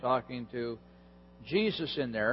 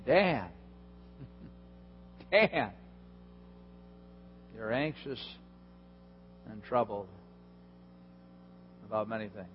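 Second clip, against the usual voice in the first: mock whisper; 6 semitones lower, 11 dB quieter than usual. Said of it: "Jesus was whispering to me".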